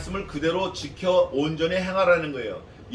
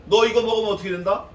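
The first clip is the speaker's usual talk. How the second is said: stern question; 4 semitones higher, 5 dB louder, faster than usual. Acted. God questioning Adam.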